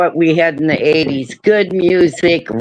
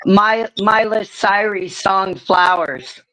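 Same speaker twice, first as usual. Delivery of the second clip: no teeth in; gummy toothless speech. Real, not acted. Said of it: "I don't have my teeth in".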